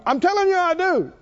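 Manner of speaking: mock boastful high insistence; a hint of a cocky Peter; proud insistent Peter.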